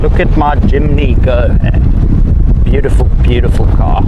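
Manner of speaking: talking while bouncing over ruts; on a bumpy road. Real, not acted. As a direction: voice jolted by bumps. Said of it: "Sorry about the bumps".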